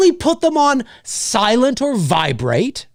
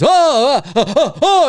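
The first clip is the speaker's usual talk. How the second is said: imitating audience gasps; 4 semitones higher, 4 dB louder than usual. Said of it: "the movie theater goes".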